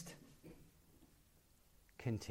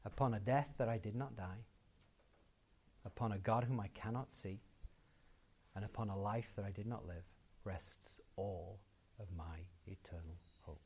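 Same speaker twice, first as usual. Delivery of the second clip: softer, lower, reverent quoting; solemn recitation; 5 semitones lower, 8 dB quieter than usual. Real, not acted. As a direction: recite it gravely, sinking to a hush. Slow hushed repeat of quotation.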